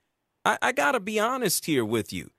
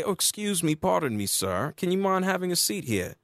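mock politeness. Host mocking Draymond as an overly polite gentleman. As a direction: play the gentleman sarcastically. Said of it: "Draymond didn't say".

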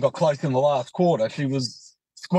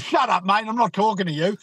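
higher, irritated dismissal; imitated annoyed brush-off; 5 semitones higher than usual. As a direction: act out a fed-up fan shutting someone down. Retold quarrel, supporter brushes him off.

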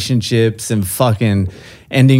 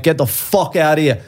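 lightly imitated Irish brush-off; Irish accent; 3 semitones higher than usual. Irishman sends the storyteller away, light Irish accent. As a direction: dismiss him with a touch of Irish accent. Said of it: "in an Irish accent".

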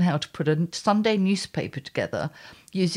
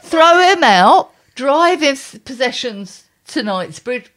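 louder, higher ranting command; block him; 5 semitones higher, 9 dB louder than usual. Acted. Ranting at couples on TV, loud command. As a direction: bark the order at the screen.

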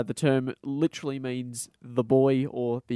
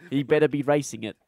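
put-on English accent. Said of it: "he's English now".

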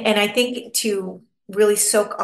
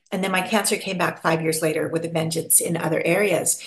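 ordinary delivery

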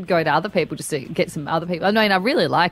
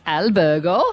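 put-on Italian word said in an Italian accent; 3 dB louder, slower than usual. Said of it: "do all of them in an Italian accent".

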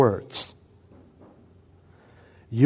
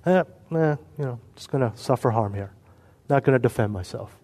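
mock politician; 2 semitones lower, 5 dB quieter, faster than usual. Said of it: "Imagine Trump or Biden saying this".

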